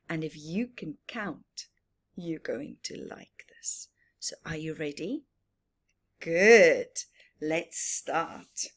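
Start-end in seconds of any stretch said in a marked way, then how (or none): 0.1-5.2 hushed, eager build-up; a whispered question before the story starts. Acted. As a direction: draw the children in quietly.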